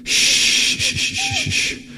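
whispered shh to keep the dog quiet; urgent hushing whisper. Acted. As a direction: hush him fast, barely breathing. Hushing in danger.

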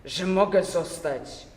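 indignant prisoner, voice catching in the throat; voice choking with emotion. Acted. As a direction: force the words out through a tight throat. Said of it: "głosem od wzburzenia więdzącym w gardle".

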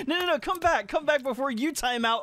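urgent calling back. Real, not acted.

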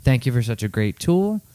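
clear, slightly lifted read-aloud voice. Real, not acted. Co-host reading a fan's thank-you note aloud, clear reading voice.

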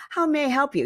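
how may I help you lifted high and sweet; sugary scripted agent. Retold or imitated. Rambling agent finally asking how may I help you, syrupy high. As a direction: pour on the customer-service politeness. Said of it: "And they're like".

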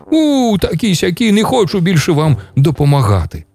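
sandpiper yelling at the crows, pitch up high; angry shout. Acted. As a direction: snap at them, fed up. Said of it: "кричить".

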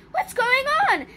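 high-pitched booming question; booming demand. A narrator's reading. Miss Fizz finds the mess, booming demand. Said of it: "she boomed".

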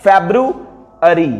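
फेब्रुअरी drawn out slowly, feb-ru-a-ri with every syllable; slow model pronunciation. Shown as a demonstration. Teacher slowly models फेब्रुअरी with the r. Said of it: "अब र यहां इसलिए आ रहा है".

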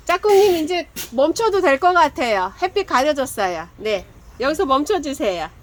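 shouted call to stop the shading. Real, not acted. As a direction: raise your voice to reach the partner behind the camera. Calling out to partner filming.

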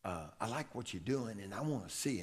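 low and soft, barely above a murmur; hushed retold coach; quiet, soft voice. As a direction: speak it softly, like a coach confiding. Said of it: "he spoke real quiet, real soft".

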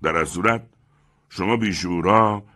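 lightly voiced boastful man; smug proud man. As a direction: preach your pride to the room. Proud man lecturing at buffet.

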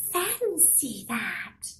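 put-on a drawn-out wondering old woman; sweet old lady. Old lady marvels, slow and soft.

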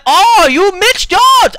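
put-on high, squeaky girly fan voice; imitating a fan. Mocking the fan who greeted him, high and squeaky. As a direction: mimic her gushing greeting, slow and high. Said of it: "She went".

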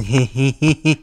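light, tittering giggle. Acted. Amused at someone really something special, tittering giggle. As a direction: titter to yourself.

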